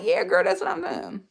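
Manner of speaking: loud, high retold cheer; excited approval. Vlogger replays her delight at the waiter's accent, excited and loud. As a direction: whoop your approval at her.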